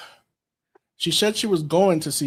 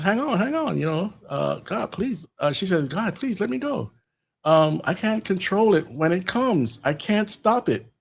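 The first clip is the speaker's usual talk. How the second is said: higher, pleading, a lightly acted plea; desperate pleading; 5 semitones higher than usual. Jean pleads with Scott to let her go, desperate. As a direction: beg to be let go, voice pitched up.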